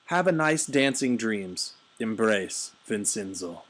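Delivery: put-on loud, high Eastern European accent read. Reading a funny email to viewers in an Eastern European accent. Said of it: "Eastern European guy".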